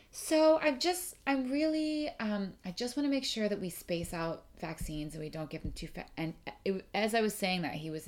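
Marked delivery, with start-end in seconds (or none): 0.1-6.0 higher, careful and tentative; polite request. Retold or imitated. Asking the vet politely to space out the vaccines. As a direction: ask politely, tiptoeing. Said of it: "as I was saying to the vet".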